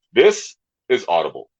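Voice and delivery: low announcer read for Audible; audiobook announcer voice. Shown as a demonstration. Comic showing off voice-acting skills, low announcer voice. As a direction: drop low like an audio promo voice. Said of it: "voice acting and stuff too".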